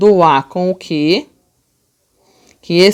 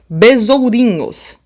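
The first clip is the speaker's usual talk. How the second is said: BESOURINHOS slowed and a bit higher; slow demonstrative reading; 4 semitones higher, slower than usual. Shown as a demonstration. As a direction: sound out BESOURINHOS slowly. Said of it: "Vamos lá, ó".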